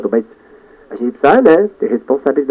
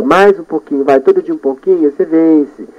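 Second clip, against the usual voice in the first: self-talk; 4 semitones higher than usual. Shown as a demonstration. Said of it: "Eu falo pra mim".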